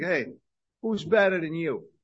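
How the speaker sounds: put-on Jersey accent. The speaker imitates people from Jersey greeting someone, in a New Jersey accent. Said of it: "And they got that accent".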